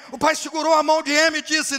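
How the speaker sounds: loud, high narration; preaching shout. A narrator's reading. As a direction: keep the shouting preacher pitch. Preacher narrating at full force.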